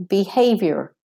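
behaviour as American be-HAY-vyer, R sounded; American R on the end of behaviour; American pronunciation. Shown as a demonstration. Teacher giving the alternative, American behaviour. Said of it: "if you're doing the American".

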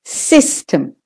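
"system" with long SIS, quick TEM; stress on SIS. Shown as a demonstration. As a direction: lean on sys, clip the tem in "system". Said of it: "short and quick".

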